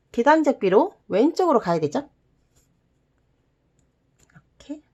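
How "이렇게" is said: soft whisper while folding. Real, not acted. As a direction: whisper under your breath. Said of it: "whispering while folding".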